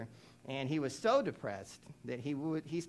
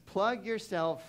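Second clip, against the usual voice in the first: dictation pace. Shown as a demonstration. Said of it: "Here's your fill in the blank in your notes".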